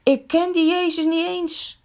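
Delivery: startled Peter, hasty denial; frightened denial. A narrator's reading. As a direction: deny it in fright. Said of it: "Petrus schrikt vreselijk en zegt".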